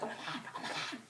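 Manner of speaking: breath-only fangirl whisper; overwhelmed whisper. Retold or imitated. Fan overcome after seeing Jacob, awed whisper.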